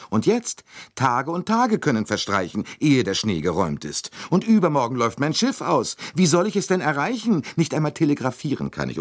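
put-on high, agitated voice of a fussy older traveller; a put-upon tourist voicing her outrage, fast at the end; indignant American lady. A narrator's reading. Mrs Hubbard complaining to the dining car, high and indignant.

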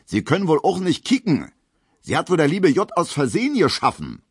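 high taunting bellow; shouting. Acted. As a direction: yell the insult for the whole hall. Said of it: "schreit Gustav Schmelow".

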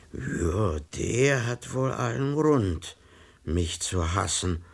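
slow, mildly saddened admission. Acted. A clerk admitting his friend has cause to hate him, slow and mildly sad. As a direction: slowly concede it, a touch downcast. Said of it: "meinte der Herr Rat betrübt".

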